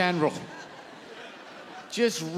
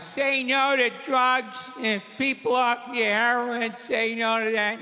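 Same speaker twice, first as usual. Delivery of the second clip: Nancy Reagan impression.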